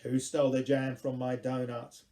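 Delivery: loud, emphatic opening line of verse; poem recitation. Acted. Poet launching into a jam donut poem, loud recitation. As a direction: declaim it as a performed poem. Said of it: "it goes like this".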